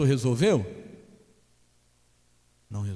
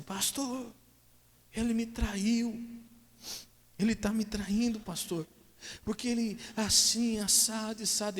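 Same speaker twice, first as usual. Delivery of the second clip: much higher, whiny distressed wife; wife complaining to pastor; 11 semitones higher, slower than usual. Retold or imitated. Wife accusing husband to the pastor, high and whiny. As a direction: plead like a wronged wife. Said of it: "ela virou pra mim e falou assim".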